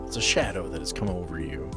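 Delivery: ordinary talk, nothing marked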